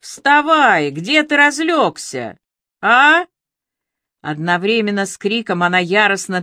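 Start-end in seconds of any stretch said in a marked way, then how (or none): 0.0-3.3 high, loud yell, slow and insistent; loud high shout at a drunk to get up. A narrator's reading. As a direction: shake him awake with your voice. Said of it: "заорала Аля прямо в ухо Мыдлону".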